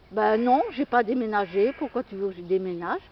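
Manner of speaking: imitating a friend's sharp, dry reply; curt dry tone. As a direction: snap it back like she's offended. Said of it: "Elle me répond sur un ton sec".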